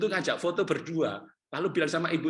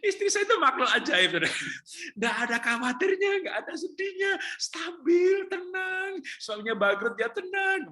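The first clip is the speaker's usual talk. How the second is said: loud, high, excited praise of his wife; excited shout; 5 dB louder than usual. Real, not acted. (teriakan bersemangat tinggi)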